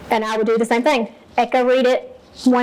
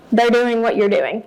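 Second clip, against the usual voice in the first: ordinary talk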